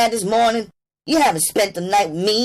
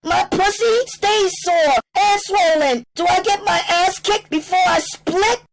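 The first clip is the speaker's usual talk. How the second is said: much higher, loud defiant outburst; spat out; 6 dB louder than usual. A narrator's reading. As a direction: dare the pimp to hit her. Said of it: "Then she went on".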